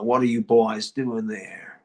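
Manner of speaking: slow, drawling Southern sheriff; Southern cowboy accent, slow. Retold or imitated. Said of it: "I got to do this Southern accent".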